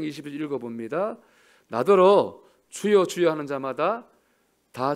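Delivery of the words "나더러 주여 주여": slow, loud drawn-out "주여"; slow loud mock 주여; mock pleading. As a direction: stretch it like empty piety. Scripture quote stretched.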